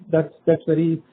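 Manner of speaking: ordinary talk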